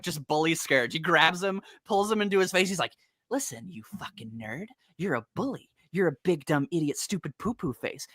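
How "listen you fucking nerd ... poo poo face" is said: mock Sonic taunt. Sonic taunting Scourge, retold.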